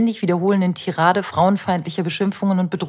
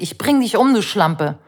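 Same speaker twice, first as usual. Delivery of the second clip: neighbour yelling threats; 2 semitones higher, 3 dB louder than usual. Retold or imitated. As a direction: shout the threat through the door. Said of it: "gegen meine Tür und schreit".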